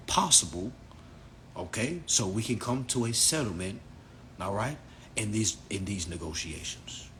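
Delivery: mock-formal London Englishman at a police stop; measured, slightly hammed-up British accent; put-on British accent. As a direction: politely lecture an officer in lightly affected British English. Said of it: "I talk like a British man from London".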